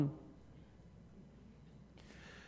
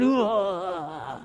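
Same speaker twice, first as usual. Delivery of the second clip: groan; 6 dB quieter than usual. Retold or imitated. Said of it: "inside you're going".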